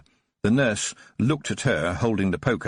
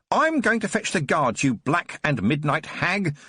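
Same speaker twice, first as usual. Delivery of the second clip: screamed; 6 semitones higher than usual. Acted. The nurse screams at Tiffany heading out, much higher. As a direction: shriek the threat at her. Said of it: "the nurse screamed".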